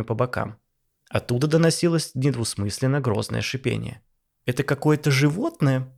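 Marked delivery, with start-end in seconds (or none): 4.5-5.9 excited. Acted. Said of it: "возбуждённо".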